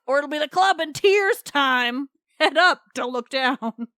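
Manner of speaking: a blustering giant checking on his flock; Polyphemus voice. Acted. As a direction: bark orders like a put-upon farm foreman. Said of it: "don't know why my voice is like that for Polyphemus".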